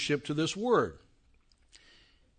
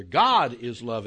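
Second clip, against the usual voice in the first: "God" leaned on, slow and louder; stress on GOD; 5 semitones lower, 3 dB louder, slower than usual. Shown as a demonstration. Teacher showing emphasis moved onto "God". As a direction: open with weight on "God". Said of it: "and emphasize".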